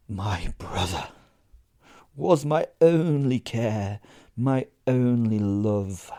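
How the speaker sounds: slow, grieving lament; slow lament for her lost brother; mournful declaration. Acted. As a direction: draw out each word in grief.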